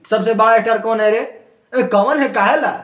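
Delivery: playful rowdy shout; mock shouting. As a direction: bark out the question like Pushpa Raj, half in jest. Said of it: "चिल्लाओ मत पुष्पा राज".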